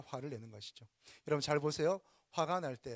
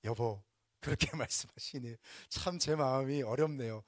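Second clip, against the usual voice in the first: a calm, gentle word to the spouse with a laugh; calm, tender demo line; calmly. Shown as a demonstration. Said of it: "하, 차분하게".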